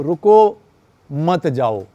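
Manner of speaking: रुको set apart by a clear pause; pause after रुको. Shown as a demonstration. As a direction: stop on रुको, then add मत जाओ. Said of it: "पे अगर हमने कॉमा लगा दिया".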